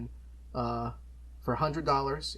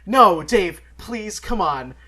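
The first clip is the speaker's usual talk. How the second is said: pitched way up and much louder, hammed-up disbelief; mock surprised protest; 8 semitones higher, 15 dB louder, much slower than usual. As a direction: yelp it like you can't believe the deal. Feigned protest at discount.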